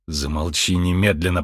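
low, contained command; stern order. Acted. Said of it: "приказал Джо". (строгий приказ низким голосом)

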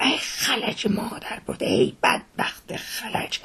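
slow, airy wail of pity; soft, long-drawn moan of sympathy; breathy lament. Acted. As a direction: draw out each word in dismayed sorrow. Coachman laments his injured colleague.

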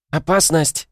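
high-pitched urgent warning cry; sudden alarm. A narrator's reading. Хло suddenly warns the team of danger, urgent high cry. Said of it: "вдруг затараторила Хло".

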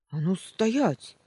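sentry yelling at the shadow to stop. Acted. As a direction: bellow at the fleeing shadow. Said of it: "завопил он".

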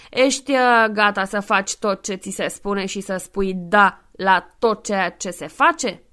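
loud, firm manly voice, slow at the end; strong virile voice. Acted. Rincarb sets strict terms for Santa. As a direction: lay down the terms like a firm boss. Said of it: "cu un glas puternic și viril".

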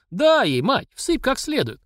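high, eager cheer; egging on. Acted. Tolik cheers mamasha on in the fight, high. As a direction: urge mother to hit harder.

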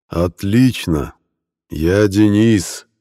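name stretched very slowly; deliberately drawn out. Acted. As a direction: drag out every syllable. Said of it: "нарочито растягивая имя".

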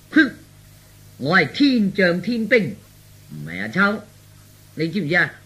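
feigned madman. Acted. Son faking madness claims to be heaven's soldier, mock pomp. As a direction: declare it like a deluded warrior. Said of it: "咁至似癲㗎嘛".

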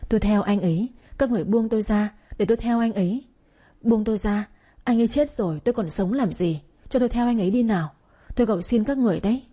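fast, desperate crying plea; sobbing plea. Acted. Held back by mourners, she begs to die with him, sobbing. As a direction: beg to follow him, sobbing. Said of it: "Tiếng khóc đã đục".

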